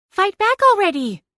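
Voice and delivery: high, pushy yell; impatient shout. Acted. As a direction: bark it at them, impatient. Cat urging narrator in fight.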